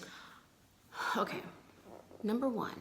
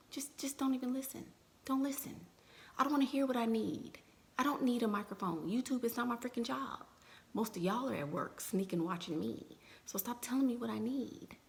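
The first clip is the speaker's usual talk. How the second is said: annoyed; 5 semitones higher than usual. Real, not acted. Annoyed rant at critics.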